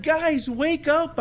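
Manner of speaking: slow, exasperated plea to wake up; drawn-out exasperated wake-up call. Retold or imitated. Jesus urging his disciples, exasperated. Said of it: "sense the exasperation in the Lord's voice".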